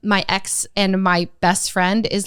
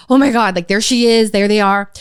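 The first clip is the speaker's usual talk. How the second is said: louder, mildly panicked retelling; retold anxiety, pushed louder; anxious; 6 dB louder than usual. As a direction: blurt it out in mock alarm. Retold anxious sighting of the girls.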